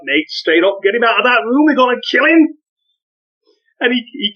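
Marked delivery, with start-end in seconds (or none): 0.0-2.6 mock angry kids. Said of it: "They're like".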